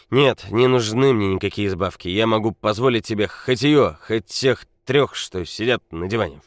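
put-on loud drunk bragging. A narrator's reading. Drunk Nikola brags, shouting.

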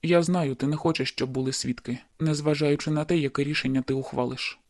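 pain breaking through. A narrator's reading. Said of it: "у його голос прорвався біль".

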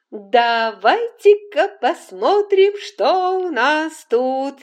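forced jolly midwife voice; fake cheerful. A narrator's reading. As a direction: sound brightly cheerful while worried. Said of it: "наигранно весело сказала акушерка".

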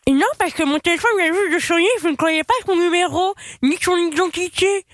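pen in teeth. Real, not acted. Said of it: "avec un stylo dans la bouche".

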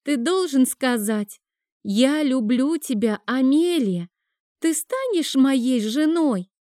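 put-on high, slow, coaching child; child voicing the proposal line slowly; little girl's voice. A narrator's reading. Child prompts her uncle.

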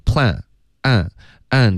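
"plan" said wrongly, ending without a firm tongue-tip n; wrong dropped n. Shown as a demonstration. Teacher shows learners the mistake, "plan" with faulty final n. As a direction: mispronounce "plan" and "an" with a loose ending. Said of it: "不能发成".

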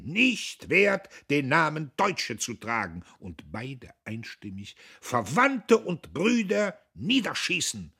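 high, loud chanted outburst; shouting together. A narrator's reading. The two men yelling in unison, loud and high. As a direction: yell in drunken unison. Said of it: "ihr Geschrei".

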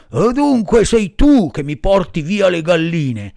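angry farmer. Acted. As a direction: roar at the thief. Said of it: "disse il contadino incollerito".

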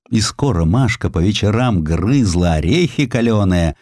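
plain reading voice

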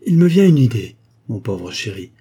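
coaxing endearment after a bright start; caressing lover's tone. A narrator's reading. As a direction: coax a poor darling. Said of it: "dit d'un ton caressant".

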